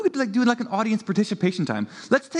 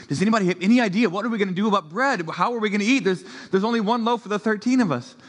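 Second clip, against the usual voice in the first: panicky disciples; 3 semitones higher, faster than usual. Pretend. Acted disciples panicking over bread.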